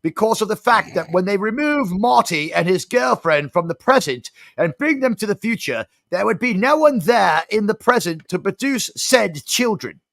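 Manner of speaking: a put-on New Zealand accent, rising as the rant heats; mock-indignant New Zealand accent ranting about movies. Kiwi-accented friend ranting to Steve about time travel, New Zealand accent. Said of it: "trying to do my New Zealand accent".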